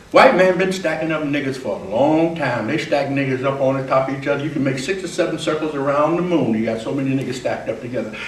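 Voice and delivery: fast, swaggering street monologue; character monologue. Acted. Actor performing an August Wilson character, fast swagger. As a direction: rattle it off like the character. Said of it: "Now that's a character talking".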